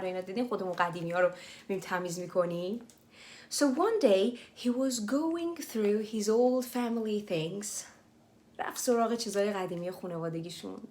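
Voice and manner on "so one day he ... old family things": slow reading. Shown as a demonstration. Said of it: "slow English reread for learners".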